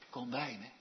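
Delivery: soft and low, almost whispered; hushed near-whisper. Shown as a demonstration. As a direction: murmur it gently, close by. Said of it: "hij fluistert niet".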